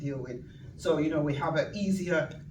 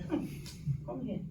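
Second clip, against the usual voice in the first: mum's voice; 5 semitones higher than usual. Retold or imitated. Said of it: "She used to say".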